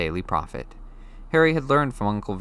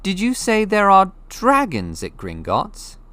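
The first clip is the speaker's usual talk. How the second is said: put-on higher, hurried boy's question while running; slightly out of breath; 12 semitones higher, 6 dB louder, slower than usual. A narrator's reading. Harry running to keep up, asking Hagrid, breathless. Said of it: "panting a bit as he ran".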